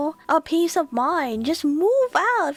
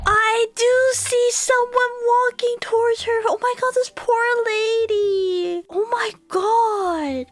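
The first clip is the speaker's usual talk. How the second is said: disturbed and near tears; shaken; 2 semitones higher than usual. Real, not acted. Shaken reaction to the footage.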